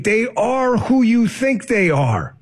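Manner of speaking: slow, pressing Denny Green line; Denny Green's famous line; Denny Green's rant. Retold or imitated. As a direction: lean on who like the famous coach. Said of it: "Denny Green".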